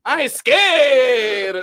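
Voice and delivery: slow, loud fake toughness; mock bravado. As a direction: drag out the boast.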